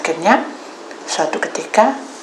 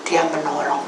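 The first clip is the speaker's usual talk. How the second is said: ordinary talk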